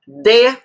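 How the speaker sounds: Dê loud and strong, standing alone; stressed monosyllable. Shown as a demonstration. Teacher showing a tonic monosyllable, Dê said strongly. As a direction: punch Dê with a full closed e. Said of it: "Dê é um monossílabo tônico, forte".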